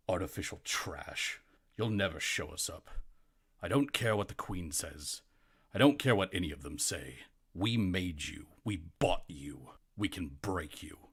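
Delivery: lightly voiced scornful noble, emphatic; a hint of a menacing bully looking down; contemptuous noble. Noble looking down at the Warforged he despises, lightly voiced contempt. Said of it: "mustache looks down to you and says".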